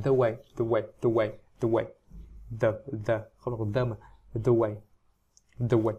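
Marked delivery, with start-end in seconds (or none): 0.0-1.8 "the way" with "the" sounding nearly "thoo"; "the" toward oo. Shown as a demonstration. Teacher shows how people read it, "the" near oo. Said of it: "từ the này nhiều khi người ta đọc thành". 4.3-5.9 "the way" with "the" close to an oo sound; "the" toward oo. Shown as a demonstration. Teacher corrects the vowel, "the" almost oo. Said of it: "gần như sang âm u ấy".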